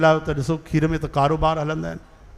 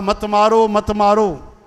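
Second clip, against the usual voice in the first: raised, drawn-out mock plea; pleading unborn babies; 3 semitones higher, 3 dB louder, slower than usual. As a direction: cry out for mercy as the babies. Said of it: "उहे चवणु लॻा". (ॿारनि जी बुलंद मिन्नत)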